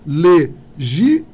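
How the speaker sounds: slow stress check on "legião"; syllables drawn out. Shown as a demonstration. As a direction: draw out "legião" to test where its stress falls. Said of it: "isso daqui não é proparoxítona".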